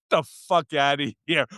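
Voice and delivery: mock Brooklyn brush-off; Brooklyn accent. Stopped man brushing off the cop, mock Brooklyn accent. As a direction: lightly put on a Brooklyn accent. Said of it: "sounded like he was coming straight out of Brooklyn".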